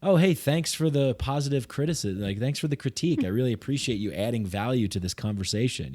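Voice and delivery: sweetly sarcastic thanks, pitch up; overly polite fake gratitude. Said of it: "I started being sarcastic".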